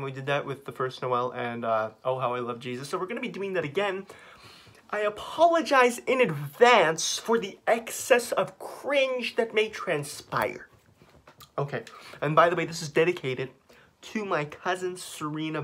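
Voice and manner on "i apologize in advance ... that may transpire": mock solemn. Mock formal apology, slowed.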